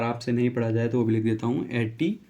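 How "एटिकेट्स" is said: एटिकेट्स said carefully as e-ti-kets, each syllable clear; correct pronunciation. Shown as a demonstration. Teacher showing students the correct pronunciation, careful and clear. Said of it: "इसका correct pronunciation होता है".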